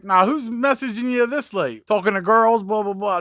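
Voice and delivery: wife jokingly accuses him of late-night flirting; mock teasing wife. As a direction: imitate a wife teasing her husband, half-joking. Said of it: "giving me a hard time joking".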